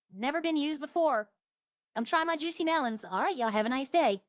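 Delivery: loud, hammed-up country vendor pitch; mock farm show host. A vendor at the farmer's market pitching melons to viewers, loud and hammed-up. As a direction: hawk your juicy melons like a market stall host.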